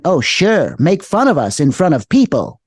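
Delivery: lightly voiced sulky gnome; imitated gnome voice. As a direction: mimic an offended little creature's sarcasm. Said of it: "that kind of a voice".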